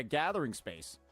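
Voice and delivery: ordinary talk, nothing marked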